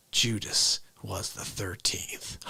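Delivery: slow hushed whisper, voice dropped away; secret whisper. Retold or imitated. Grandma whispering to her grandson why thirteen is unlucky, slow whisper. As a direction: whisper it like a dark family secret.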